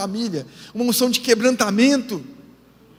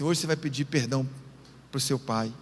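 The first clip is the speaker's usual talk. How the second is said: voice of the Holy Spirit; 9 semitones lower, 6 dB quieter than usual. Retold or imitated.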